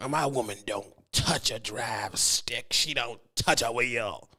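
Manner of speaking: slow, lightly hammed-up proud husband; mock macho boast. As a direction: drag it out like a smug trucker. Mocking macho trucker boast.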